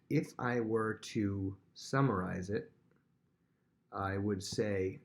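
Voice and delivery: slow, drawn-out summary voice; slow, careful teacher summary; slow, deliberate. Shown as a demonstration. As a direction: spell it out slowly for the class. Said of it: "this is how I would say it".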